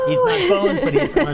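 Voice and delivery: laughing high and loud. Real, not acted. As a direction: burst out laughing while talking. Laughing at the joke.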